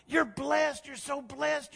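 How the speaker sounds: high-pitched, exultant blessing; celebrating. Acted. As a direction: celebrate her, pitched right up. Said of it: "together they just celebrated God".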